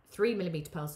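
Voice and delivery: words broken by hiccups. Real, not acted. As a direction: say it mid-hiccup, catching breath. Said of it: "sorry, I've got hiccups now".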